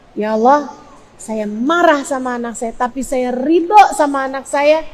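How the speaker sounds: subdued plea of acceptance; accepting prayer. Shown as a demonstration. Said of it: "Doa begitu".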